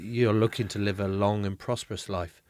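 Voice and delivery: a hint of a mystic fortune teller; like a fortune teller foretelling fate. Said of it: "You said that like you're a fortune teller".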